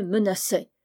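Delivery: usual speaking voice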